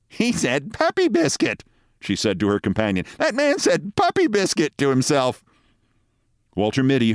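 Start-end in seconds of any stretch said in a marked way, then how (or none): 0.1-1.6 very high, slow mocking woman's voice; amused passerby. A narrator's reading. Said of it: "A woman who was passing laughed". 3.2-5.4 amused passerby. A narrator's reading. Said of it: "A woman who was passing laughed".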